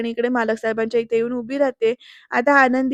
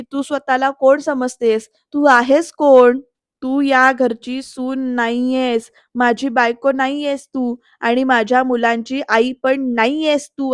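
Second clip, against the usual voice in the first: angry scolding; slower than usual. Retold or imitated. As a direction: lay into her, word by word. Yugandhar scolds Anandi.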